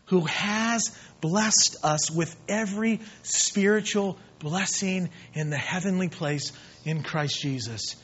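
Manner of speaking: measured, deliberate recitation; scripture reading. Acted. Preacher quoting Paul to the church, measured scripture reading. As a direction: recite the verse phrase by phrase.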